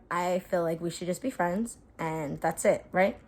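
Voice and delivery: softly, low and tentative; retold gentle letdown. Telling him they should just be friends, quiet letdown.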